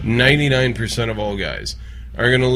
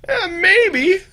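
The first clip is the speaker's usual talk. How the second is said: mock hesitant. Mocking a hesitant reply.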